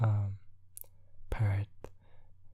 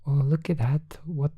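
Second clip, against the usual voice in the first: higher, louder delighted exclaim; amazed Goo; 6 semitones higher, 4 dB louder than usual. Acted. Goo amazed at the pet on its shoulder, higher and louder. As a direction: marvel out loud at the tiny pet. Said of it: "And Goo says".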